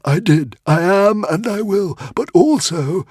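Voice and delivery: tiny frantic squeaking creature; squeaky little dragon. A narrator's reading. Woden's Fang answers.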